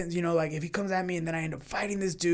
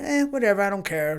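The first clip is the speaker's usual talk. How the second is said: dismissive; 2 semitones higher, 6 dB louder than usual. Retold or imitated. Gym owner brushing off blocked parking, dismissive. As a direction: shrug it off with a raised "eh". Voicing his usual brush-off.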